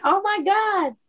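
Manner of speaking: high-pitched mock fangirl gasp; imitated thrilled fan. Imagines fan receiving her postcard.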